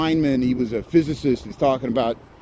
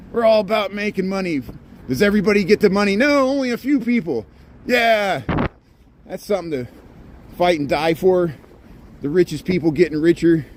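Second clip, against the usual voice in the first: sarcastic; 6 semitones higher than usual. Pretend. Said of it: "I'm joking".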